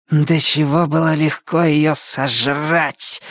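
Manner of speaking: slow, hissed witch's gloat. Acted. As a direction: hiss it with relish over the prey. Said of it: "прошипела она".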